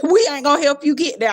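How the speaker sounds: mocking Thomas.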